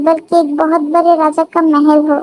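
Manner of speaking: lightly voiced marvelling wife; a hint of wonder, slightly lifted voice. Wife admiring husband's palatial house, lightly voiced wonder.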